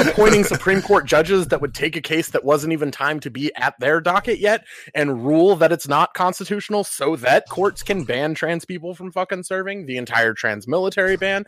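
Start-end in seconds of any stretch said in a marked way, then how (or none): 0.0-9.9 laughing. Real, not acted. Laughing while starting the grim list.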